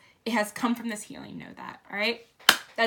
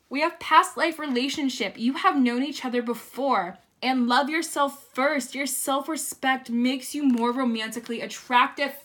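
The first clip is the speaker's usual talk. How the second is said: excited reading; 3 semitones higher, 4 dB louder than usual. Real, not acted. Excitedly reading card meanings.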